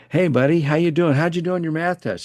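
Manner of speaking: bright, high, eager hello; retold upbeat hallway greeting; cheery greeting. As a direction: greet the kid like you're thrilled to see him. Greeting student warmly, retold.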